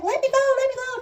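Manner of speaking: high, loud pleading wail; mother in labour begging to be left alone; desperate plea. Retold or imitated. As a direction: beg them to stop.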